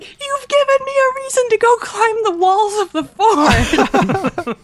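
high, slow, laughing delight; imitating his laughing glee; giddy excitement. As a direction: savour every word with glee. Quoting the thrilled artist.

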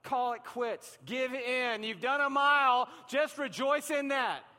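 high, loud, insistent body begging to quit; pleading body voice. Retold or imitated. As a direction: let the body beg you to go home. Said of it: "your body's like".

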